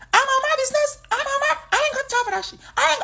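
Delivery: squeaky-high mock Black American accent; very high, exaggerated Black American accent; imitating Black American accent. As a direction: push the Black American impression into falsetto. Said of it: "they have this accent".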